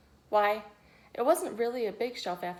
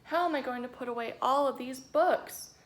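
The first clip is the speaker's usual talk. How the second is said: dismayed; 5 semitones higher, 6 dB louder than usual. A narrator's reading. Volunteer dismayed at mess.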